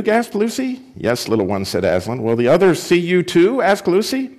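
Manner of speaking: lively read-aloud to a church group; reading a children's book aloud; story reading. Acted. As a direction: bring the story to life for listeners. Reads Prince Caspian aloud.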